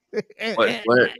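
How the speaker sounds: jolted, asking what happened; mock alarm at bad news; startled what. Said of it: "And I'm like".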